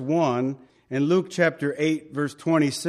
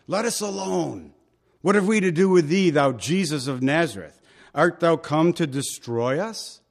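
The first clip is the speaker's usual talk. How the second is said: demon crying out; 3 semitones higher than usual. Retold or imitated. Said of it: "he cried out".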